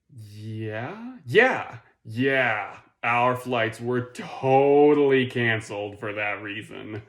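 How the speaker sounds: drawn-out questioning yeah, then overly emphatic agreement; unconvincing excuse. Acted. Airline answering a request for comment, mock unconvincing excuse.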